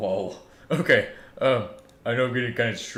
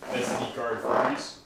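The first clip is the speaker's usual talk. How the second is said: whispered question; 4 semitones higher, 4 dB louder, slower than usual. Pretend. Wondering whether card froze.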